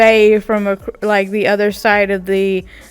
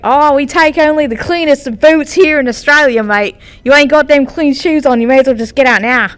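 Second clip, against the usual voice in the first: higher-pitched, hammed-up Australian accent; 4 semitones higher, 3 dB louder than usual. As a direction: do a broad mock-Aussie. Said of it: "Was that an offensive accent at all".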